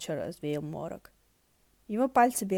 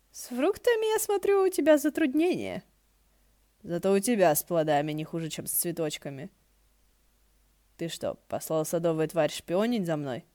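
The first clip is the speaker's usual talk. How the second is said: sly voice; 3 dB louder than usual. Acted. Hua Cheng voiced, sly.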